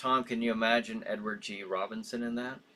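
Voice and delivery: plain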